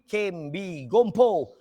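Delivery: "kim bi, gompo" spelt out word by word, "gompo" loud; correct form demonstrated. Shown as a demonstration. Teacher giving pupils the right form, "kim bi, gompo" emphatic. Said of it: "Bukan kim".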